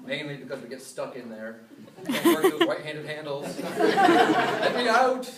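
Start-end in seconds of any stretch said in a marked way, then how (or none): 3.8-5.3 high, loud laughing plea; mock plea. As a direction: beg to be let out, laughing.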